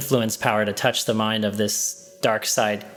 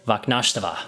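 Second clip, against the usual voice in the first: lightly voiced wise old mentor, clear and soothing; a hint of an ancient voice resonating in the mind; wizened soothing voice. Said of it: "you hear that voice again".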